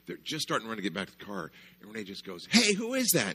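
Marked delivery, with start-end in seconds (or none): 2.5-3.3 loud, high call across the yard. Retold or imitated. Renee calling out to the fleeing kids, loud and high. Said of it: "she just yells out".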